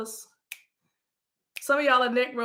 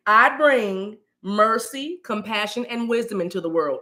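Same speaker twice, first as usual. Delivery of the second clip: affirmation to repeat; 2 semitones lower than usual. Shown as a demonstration. Host has viewers repeat an affirmation, measured delivery. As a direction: pause after each quality, lifting then falling. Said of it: "I need y'all to say".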